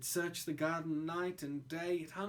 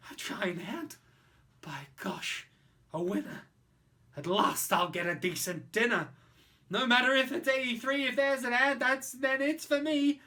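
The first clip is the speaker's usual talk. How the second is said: gleeful creature; 5 semitones higher, 6 dB louder than usual. Acted.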